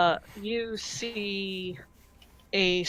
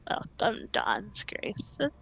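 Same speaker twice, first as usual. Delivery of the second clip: menacing hag; much slower than usual. Acted. The hag greets Dawn's Graces with a slow whispered threat. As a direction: tease the heroes like a predator. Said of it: "And she goes".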